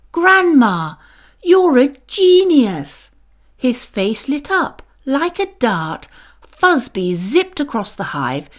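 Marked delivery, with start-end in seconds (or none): 0.1-3.1 high, loud burst of delight; thrilled bee cries out to grandma, high and loud; excited little bee. A narrator's reading. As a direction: shout it as the idea hits. Fuzby's excited realization.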